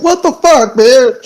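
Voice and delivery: high, loud, indignant squawk; the battered elemental protests in a shrill, high cry; outraged air elemental. Acted. Air elemental after its face got caved in, high and loud in outrage. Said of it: "and now it's like".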